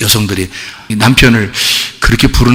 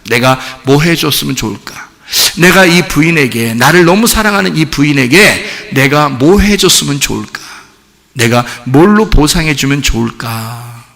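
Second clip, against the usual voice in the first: low, tender musing; lightly voiced husband wondering how to repay her; 고민하는 남편; 4 semitones lower than usual. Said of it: "보상을 생각합니다". (낮고 다정하게 혼자 궁리하는 말투)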